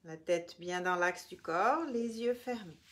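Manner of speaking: measured meditation voice with long pauses between phrases; guided relaxation. Real, not acted. Yoga teacher guiding listeners through the body, calm guided relaxation.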